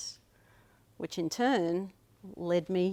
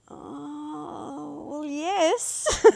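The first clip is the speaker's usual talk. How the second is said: much higher mimicked voice, flustered admission that grows louder; high, embarrassed imitation of the aunt; imitating the aunt; 10 semitones higher, 4 dB louder, much slower than usual. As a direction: do the aunt caught out, admitting it. Aunt's flustered retold admission.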